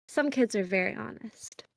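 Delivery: soft, gentle aside in character; gently serious. Acted. A soft-smiling character quietly answers about kids, gently serious. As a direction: say it softly through a small smile. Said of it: "still a very soft smile, she goes".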